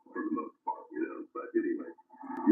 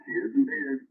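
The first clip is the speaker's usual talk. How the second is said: louder, higher mock Aussie toast; Australian accent; 5 semitones higher, 6 dB louder, slower than usual. Radio operator toasts his Aussie contact in Australian accent. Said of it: "take on an Australian accent".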